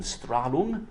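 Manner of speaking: attempted German accent on Strahlung. Shown as a demonstration. Lecturer showing the word's origin, German accent. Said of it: "put on my best German accent".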